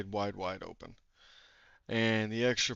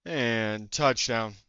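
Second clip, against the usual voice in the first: touchdown call; 7 dB louder, much slower than usual. Real, not acted. Calling a score.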